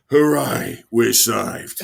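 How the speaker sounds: mock celebration; mock cheer. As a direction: fake relief at being rescued. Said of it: "and thought".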